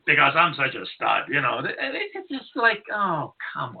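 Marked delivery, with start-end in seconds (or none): 0.0-1.2 imitating a boastful guy; lower, mock swagger; mock bragging. Host imitates guys bragging about women, boastfully. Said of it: "Just guys talking and bragging".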